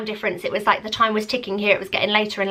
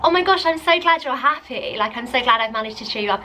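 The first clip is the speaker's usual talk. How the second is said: forced cheerfulness; 2 semitones higher than usual. Retold or imitated. Replying to her friend while secretly angry, forced cheer. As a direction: pretend to be thrilled through gritted teeth. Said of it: "so angry".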